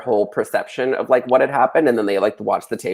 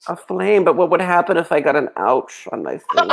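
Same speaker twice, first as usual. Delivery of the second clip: put-on baby voice; 6 semitones higher than usual. Mocking helpless damsel.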